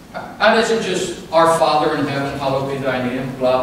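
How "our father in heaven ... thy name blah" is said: low, monotone recited prayer; mock rote recitation. Preacher showing what prayer isn't, in a mock droning recital. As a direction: rattle it off as empty words. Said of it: "That ain't just a prayer".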